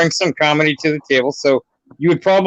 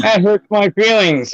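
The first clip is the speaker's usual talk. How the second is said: slow, higher mock wounded whine; mock hurt; 4 semitones higher, slower than usual. Caller pretending the hosts rejected him, mock hurt whine. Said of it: "I'm gonna cry now".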